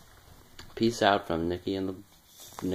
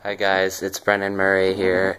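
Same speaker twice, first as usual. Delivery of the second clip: helium voice; 7 dB louder, slower than usual. Real, not acted. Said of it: "It really worked".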